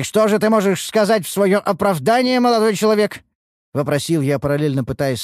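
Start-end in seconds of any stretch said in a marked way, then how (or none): 0.0-3.2 higher, louder reprimanding question; stern questioning. Acted. Master demanding that a young man justify himself, stern. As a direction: demand an explanation, voice raised.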